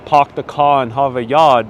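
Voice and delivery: put-on Boston accent. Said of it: "I will not do a Boston accent".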